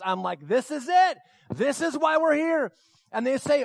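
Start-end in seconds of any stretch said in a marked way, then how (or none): 0.5-2.7 high, retold excitement; thrilled. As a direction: build to the big moment of the mission. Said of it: "like, goosebumps".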